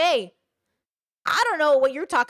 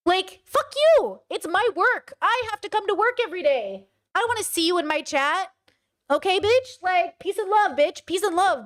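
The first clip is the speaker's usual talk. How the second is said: mock streamer rant; 5 semitones higher than usual.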